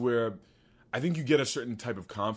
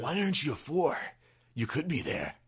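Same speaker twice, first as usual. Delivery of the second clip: odd put-on voice; 4 semitones higher than usual. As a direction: put on a mock dramatic narrator voice. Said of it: "I don't know what that voice is".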